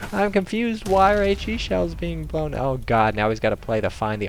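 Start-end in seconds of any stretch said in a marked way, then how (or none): 0.1-2.5 confused tank crew. Acted. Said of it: "They're like".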